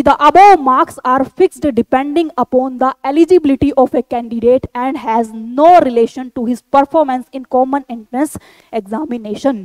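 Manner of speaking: slow, deliberate read-out of a notice; reading aloud. Real, not acted. Teacher reading an army notification to candidates, slow deliberate read-out. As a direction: read each phrase out slowly and carefully.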